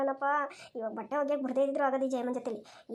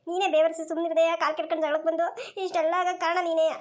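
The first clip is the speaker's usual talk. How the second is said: raised, pushed-out drowning lament; panicked wailing blame; 3 dB louder than usual. Acted. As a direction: wail in distress while blaming your rival. Drowning woman wails and blames rival.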